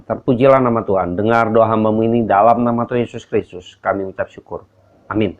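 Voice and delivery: calm earnest spoken prayer. Acted. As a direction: pray steadily and sincerely. Leads an opening prayer.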